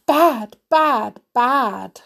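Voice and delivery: mild panic, hammering every word; fretting. A narrator's reading. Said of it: "fretted Cogsworth the clock".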